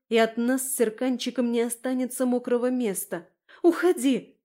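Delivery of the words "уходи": loud, high shooing shout; forceful frightened command; driving it away. A narrator's reading. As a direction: shout to chase off a beast. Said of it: "Я попыталась прогнать волка".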